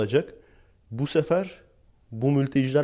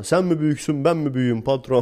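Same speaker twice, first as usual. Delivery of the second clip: a hint of a cocky foreman talking back, higher and louder; mock defiant worker; 4 semitones higher, 4 dB louder than usual. Worker boasting he told off the boss, mock defiant. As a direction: puff up and challenge the boss, half joking. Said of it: "Gider böyle patrona".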